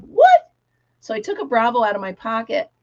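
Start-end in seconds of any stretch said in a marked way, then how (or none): 0.0-0.5 squeaky, shouted high What; mock surprise. Teacher to girl without a Bravo, mock shock. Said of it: "I went".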